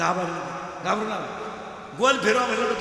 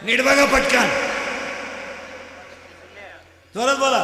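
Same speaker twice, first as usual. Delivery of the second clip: slow, loud teacher urging; urging loudly; 4 dB louder than usual. Real, not acted. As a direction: push them to answer out loud.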